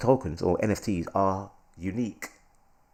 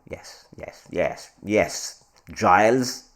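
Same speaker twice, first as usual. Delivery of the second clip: posh voice; 2 semitones lower, much slower than usual. Pretend. Host showing off to viewers, posh voice. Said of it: "posh voice right now".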